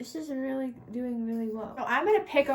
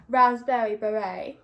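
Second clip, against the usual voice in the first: slow, loud put-on British accent; mock British accent; 6 dB louder than usual. Vlogger with no French accent opting for mock British accent. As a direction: draw it out in an amateur British accent. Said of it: "we're gonna do the British".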